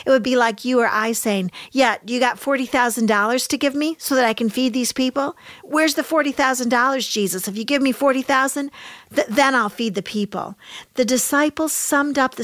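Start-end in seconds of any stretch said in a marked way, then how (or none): 1.7-10.6 fast, lightly voiced sarcasm; mock the offer like a doubtful friend, quickly; hurried mild scoffing; sarcastic retort. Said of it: "they were being sarcastic with Jesus".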